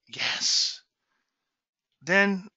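normal talking voice

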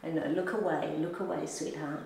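hushed, low aside to a shy companion; soft cooing. Real, not acted. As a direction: coo softly, fading to very quiet. Cooing to someone camera shy.

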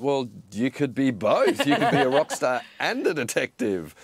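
exaggeratedly encouraging retold dad voice. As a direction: build a child up, leaning hard on "both" and "and". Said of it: "I wanna be really encouraging here".

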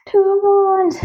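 high excited cry of the card name. Real, not acted. (ร้องเสียงสูงอย่างตื่นเต้นเมื่อเห็นไพ่)

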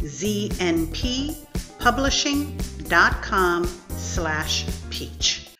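measured, emphatic ad read; sponsor read. Acted. Host reads the episode's sponsor message, deliberate announcer style.

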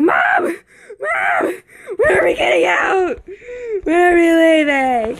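high, crying call to mom; whiny shout. Retold or imitated. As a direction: yell across the pool to mom, whining. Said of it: "I'm like".

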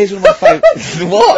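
high and loud, laughing through the words. Real, not acted. Host laughs while introducing his favourite fable. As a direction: giggle your way into the next one.

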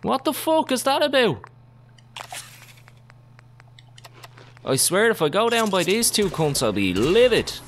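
real high-pitched rage at being hit; furious squeal. Real, not acted. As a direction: scream at the attackers in fury. Raging at enemies hitting him.

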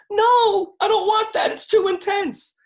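hammed-up high-pitched panic; mock whiny refusal. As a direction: play the scared student pushing it away. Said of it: "some of you will go".

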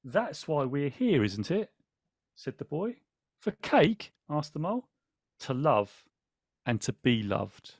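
slow, tender read-aloud with light character voices; story reading. A narrator's reading. Host reading the book to viewers, tender and slow.

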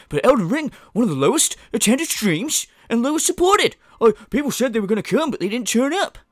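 high, loud mock podcast complaint; mocking streamer impression. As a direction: put on an exaggerated lamenting host voice. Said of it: "And then what happens?".

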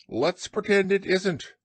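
high-pitched evasive rabbit voice. A narrator's reading. Rabbit dodges Pooh's greeting, high voice. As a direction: put on a high little animal voice. Rabbit answers Pooh in story.

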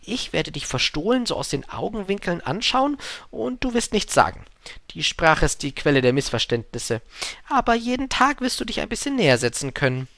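lightly voiced gentle storybook fox; lilting, patient explanation with a lift in pitch; fox, patiently instructing.

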